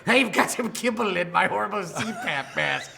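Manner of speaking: giggling through the line; words broken by laughter; laughing. Acted. Laughing while answering in character.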